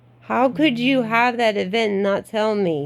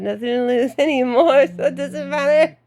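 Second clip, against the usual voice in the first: laughing; 5 semitones higher than usual. Real, not acted. Laughing about nothing to lose.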